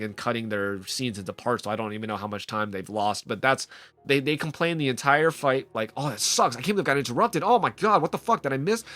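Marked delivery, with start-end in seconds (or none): 6.0-8.8 mock angry gamer. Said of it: "They're angry".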